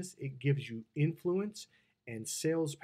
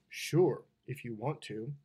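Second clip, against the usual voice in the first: grudging, dropped-away consent; reluctant yes; 3 semitones lower, slower than usual. Shown as a demonstration. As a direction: say yes but let the tone say no. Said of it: "And then the tone".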